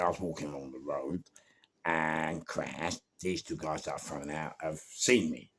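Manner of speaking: ordinary delivery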